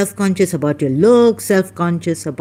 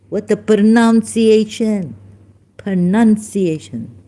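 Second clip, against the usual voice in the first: loud, higher mock correction; imitating correcting friend; 4 semitones higher, 6 dB louder than usual. Friend Libby correcting the speaker's word, imitated correction. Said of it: "Now Libby, my friend, they say".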